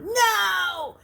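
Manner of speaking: sudden high, loud cry of no; a voice in his head shouting him down; inner scream. A narrator's reading. Narrator voices the inner voice, a loud high cry.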